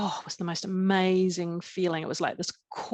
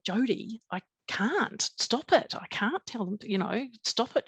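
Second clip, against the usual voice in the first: retold pleading; 4 semitones higher than usual. Retold husband hushing frantic wife.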